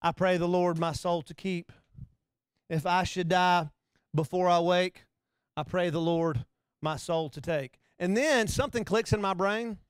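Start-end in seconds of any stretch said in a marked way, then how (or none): 0.0-7.8 put-on child's bedtime prayer. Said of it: "they repeat after".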